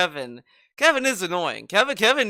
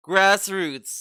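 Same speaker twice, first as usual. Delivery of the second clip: sarcastic; 5 dB louder than usual. Pretend. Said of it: "a channel that's, like, almost two hundred K fucking subs".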